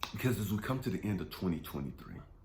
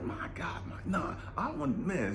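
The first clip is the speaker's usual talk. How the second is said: 1 whispered plea; 7 semitones higher than usual. Retold or imitated. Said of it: "Jesus is like".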